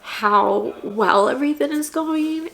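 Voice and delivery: real tears pushing through the words; getting emotional. Real, not acted. Telling her viewers how overwhelmed she is, voice breaking. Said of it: "I'm getting emotional".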